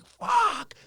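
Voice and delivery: mock pained yell of a swear; imitating his friend screaming mid-set; retold scream. Friend straining on hack squats, mock yell. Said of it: "he's screaming".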